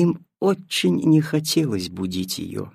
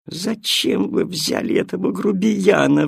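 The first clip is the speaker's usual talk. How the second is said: shrieking cat; 6 semitones higher than usual. Acted. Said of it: "взвизгнула кошка".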